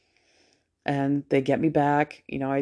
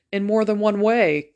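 higher, louder, slow knowing joke; joking quip; 6 semitones higher, 5 dB louder than usual. Retold or imitated. Patient teasing the nurse in the anesthesia room, with slow sly emphasis. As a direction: land the double meaning slowly. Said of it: "making my Dana jokes".

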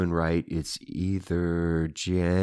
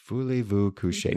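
put-on French accent; 2 semitones higher than usual. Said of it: "Sing more in French".

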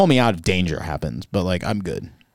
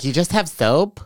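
high, incredulous host voice; sassy makeover host voice; 7 semitones higher, slower than usual. Pretend. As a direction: play the shocked stylist. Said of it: "They'll be like".

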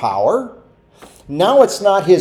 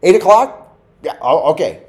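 unreliable friend; 4 dB louder than usual. Retold or imitated. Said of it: "I hate to be that person that tells somebody".

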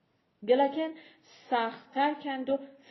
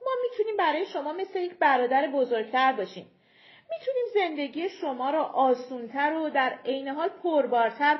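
higher and louder, sweetly persuasive; coaxing giant envoy; 4 semitones higher, 4 dB louder than usual. Acted. Giant leader coaxing the small folk down, persuasive. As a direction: lure them off the mountain with promises.

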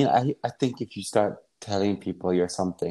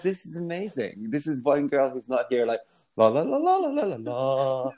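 mock carefree la la; 3 semitones higher than usual. Remembering his friend arriving smoking, mock carefree singsong. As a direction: toss it off like you don't care. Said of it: "And I thought".

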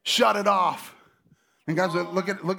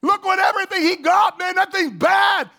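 high, loud envious gushing; loud, high covetous excitement; envious admiration; 10 semitones higher, 7 dB louder than usual. Retold or imitated. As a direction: gush over the neighbor's car. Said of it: "and go".

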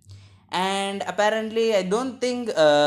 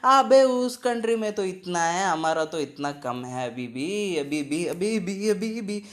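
rapid mocking Hindi rant; mocking comparer; much faster than usual. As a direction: rattle it off fast like gossip. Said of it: "we are always fucking comparing".

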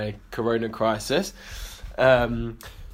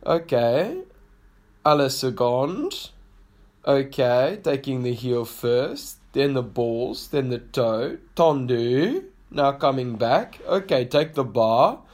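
put-on South African accent; slower than usual. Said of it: "gently, uh, whispering instructions to me in his South African accent".

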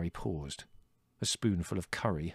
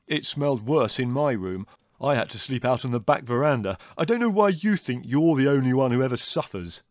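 loud, put-on brother's grumble; aggrieved complaint; 7 semitones higher, 9 dB louder than usual. A narrator's reading. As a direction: build to an indignant blast.

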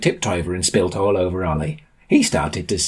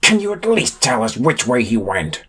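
higher, exasperated tearful plea; upset, raised-pitch demand; snapping through tears; 5 semitones higher than usual. A narrator's reading. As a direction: snap as if close to tears. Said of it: "through tears snapped at her".

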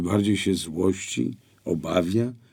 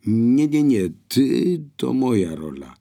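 higher and louder, calling out from another room; exclaiming from the kitchen; 7 semitones higher, 7 dB louder than usual. A narrator's reading. Ewa calls from the kitchen to the two men, exclaiming loudly. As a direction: shout it across the house. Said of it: "wykrzyknęła z kuchni Ewa".

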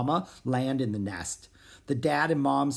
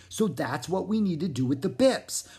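a frog sharing a secret plan; 2 semitones higher than usual. Acted. Pip telling Zoe the plan, half whispered.

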